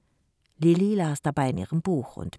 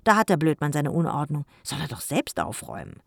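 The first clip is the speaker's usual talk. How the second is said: put-on gloating girl; 4 dB louder than usual. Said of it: "sagte sie schadenfroh".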